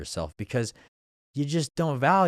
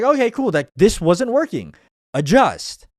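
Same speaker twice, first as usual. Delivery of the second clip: energized self-talk; 8 semitones higher, 8 dB louder than usual. Retold or imitated. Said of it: "be like".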